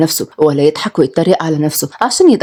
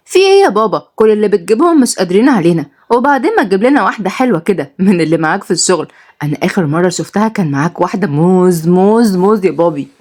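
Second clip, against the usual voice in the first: put-on cheeky boy. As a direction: push your luck with dad. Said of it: "رد ياسين بوقاحة".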